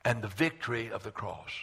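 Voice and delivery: emphatic preacher with long pauses; preaching. Real, not acted. Preacher announcing the power of the cross, emphatic preaching. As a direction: punch the key words, then pause. Opens sermon in preaching style.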